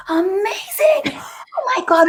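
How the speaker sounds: high breathy awed whisper; high excited whisper to a client; gushing whisper. Retold or imitated. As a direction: whisper it like the best news ever.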